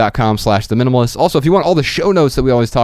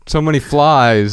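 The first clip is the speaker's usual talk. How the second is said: put-on Aussie accent, higher and drawn out; slow, playful Australian twang; 4 semitones higher, slower than usual. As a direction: slip into a mock Australian accent. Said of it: "How do you develop an accent so quickly".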